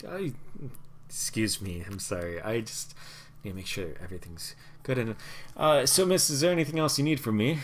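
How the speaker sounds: a nervous tiny courier fumbling his delivery; halfling courier voice. Acted. Halfling fusses.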